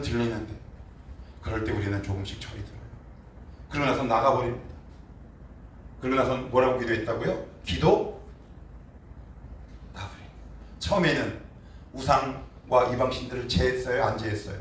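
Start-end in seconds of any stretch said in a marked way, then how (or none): none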